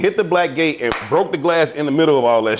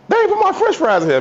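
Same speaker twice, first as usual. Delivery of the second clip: imitating mama.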